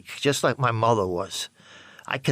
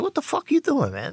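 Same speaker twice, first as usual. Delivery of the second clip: angry confrontation; 13 semitones higher than usual. Retold or imitated. Confronting friend over drug deal.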